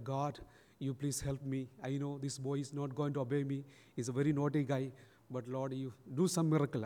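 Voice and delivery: low-key, softened plea to God; silent prayer. Retold or imitated. Priest praying for help with a naughty boy, hushed prayer. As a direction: pray inwardly, quietly and earnestly. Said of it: "a silent prayer".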